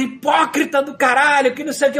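imitating an angry commenter; snarled insult, mocking the commenter. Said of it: "ele tava puto". (xingamento irritado imitado)

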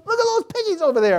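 put-on very high, loud squeal of childish excitement; excited little boy. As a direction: imitate a thrilled kid shouting about a discovery. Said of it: "he's all excited".

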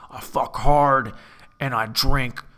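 slow, brooding tough-guy put-on voice; movie burnout. Playing a movie tough guy who can't cry, brooding burnout. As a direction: drag out each line like a hardened burnout. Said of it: "a burnout".

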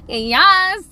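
high, loud mock yell; screamed yes. Parent vindicated by son's realization, mock scream. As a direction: shout it like long-awaited vindication. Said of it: "fucking screaming that at your face".

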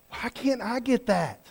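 mock whine. Voices listener's complaint.

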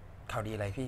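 low, soft, very slow question; retold phone reply. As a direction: re-enact a cautious phone answer, hushed. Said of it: "กูก็".

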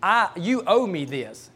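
retold demand to God, slow and deliberate; mildly entitled insistence; almost arrogant. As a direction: press each word like a debt being claimed. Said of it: "I was almost arrogant with God".

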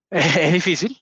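slow, with a small embarrassed laugh. Real, not acted. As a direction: laugh it off gently. Emotional, laughs through the words.

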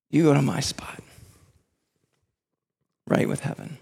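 hushed whisper of Jesus. Acted. Preacher voicing Jesus to the listener, whispered. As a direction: whisper it like a tender secret. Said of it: "And Jesus says".

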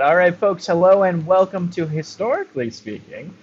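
a hint of a game show host; lightly hammed-up host intro. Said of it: "you have the better game show host voice".

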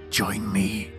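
hollow, eerie ghost voice. A narrator's reading. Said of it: "her voice only becomes more horrifying as she repeats".

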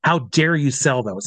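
understated retelling of an angry challenge; retold anger. Marketing head confronts the pointer seller, understated retold anger. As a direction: quote the angry boss without raising the voice. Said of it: "he's spitting mad".

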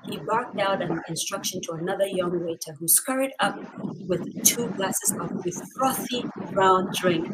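ordinary talk

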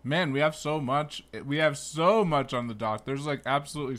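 talking through a mouthful of dates; words round a bite of food; chewing while talking. Real, not acted. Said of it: "sorry, I'm chewing into the mic".

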